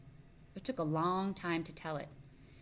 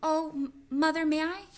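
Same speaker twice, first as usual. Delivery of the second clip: much higher, much louder eager begging; excited plea; 11 semitones higher, 10 dB louder than usual. Acted. Martin eagerly begs his mother to let him go. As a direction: beg your mother, bursting with excitement. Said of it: "Martin was growing excited".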